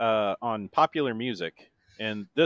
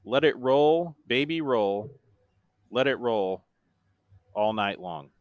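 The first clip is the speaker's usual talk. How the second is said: lyrics spoken in separate, measured phrases; deadpan monotone. Shown as a demonstration. Quizmaster reads the second chorus clue, in a monotone. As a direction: recite the chorus without any singing. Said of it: "said in my best monotone voice".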